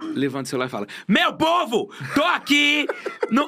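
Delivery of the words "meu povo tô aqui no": put-on very slow, shrill, very high yell. Describing Jéssica raising her phone to record stories, imitating her shouting. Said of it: "Jéssica, para de gritar".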